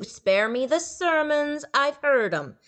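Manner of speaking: contemptuous ghoul; scornful ghoul. A narrator's reading. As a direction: wave off the preaching. Ghoul dismisses sermon.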